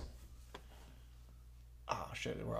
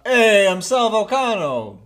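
Sal Volcano; 4 semitones higher, 4 dB louder, slower than usual. Acted. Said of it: "Sal Volcano lives in Jersey".

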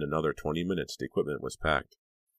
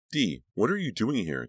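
choked out; 6 semitones higher than usual. Acted. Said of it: "Danielle choked out".

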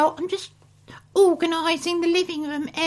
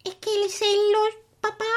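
fake Italian; 2 semitones higher, faster than usual. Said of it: "Italian gibberish".

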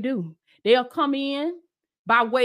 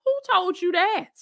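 king's voice; 7 semitones higher than usual. Retold or imitated. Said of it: "I hear the king talking like".

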